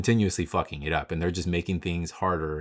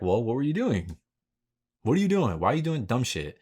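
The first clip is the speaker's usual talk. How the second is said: higher-pitched disbelieving questions; acted-out alarm, pitch jumping up; incredulous outburst; 5 semitones higher, 3 dB louder than usual. Spectator reacting to people crashing at takeovers, acted-out incredulous outburst.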